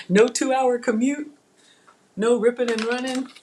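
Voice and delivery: hammed-up incredulous delight; delighted disbelief. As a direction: act out hearing a dream offer. Acting out reaction to job offer.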